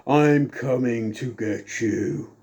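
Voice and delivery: slow, spooky taunt over the PA; slow menacing mystery voice taunting the Boss Man; mysterious PA voice, corrected. Shown as a demonstration. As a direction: drag it out eerily. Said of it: "It didn't sound like that".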